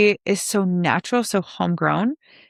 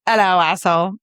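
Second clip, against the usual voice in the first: sassy greeting; 3 dB louder than usual. Retold or imitated. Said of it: "the way she says it, it's just perfect".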